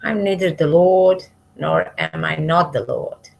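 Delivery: ordinary talk, nothing marked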